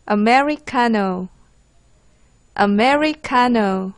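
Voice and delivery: 아메리카노 drawn out slowly, syllable by syllable; pronunciation model. Shown as a demonstration. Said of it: "개프쌤의 발음을 듣기 전에". (아메리카노를 천천히 또박또박 발음)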